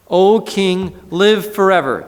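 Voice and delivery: high, loud call of greeting. Acted. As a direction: call up to the king from the den. Daniel calls from the den.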